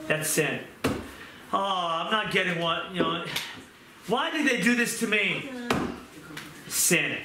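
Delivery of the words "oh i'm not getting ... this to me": mock self-pitying complaint, rising at the end; poor-me grumbling, put on. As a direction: act out a pity-me moan. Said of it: "that self-pity".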